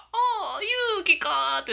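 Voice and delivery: a hint of the grandpa, recognising his granddaughter's name; mock grandpa on the phone. Granddaughter imitates grandpa answering her call, lightly voiced old man. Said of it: "って言って、ブーブーブーって".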